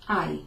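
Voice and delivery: I as "eye", starting on the vowel; silent h. Shown as a demonstration. Teacher demonstrating hai for learners, I without any h. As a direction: say I as gliding "ai", h dropped. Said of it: "we don't pronounce the H".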